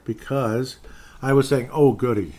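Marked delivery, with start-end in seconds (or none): 1.7-2.3 dry mock delight, a bit louder; sarcastic oh goody. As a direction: sneer out a fake cheer. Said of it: "this is my sarcastic Michael Savage side".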